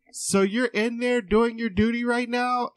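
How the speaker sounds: put-on high sly old lady voice. Patient teasing the man in the restroom, high granny voice. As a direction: tease him like a naughty granny. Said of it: "she was just like".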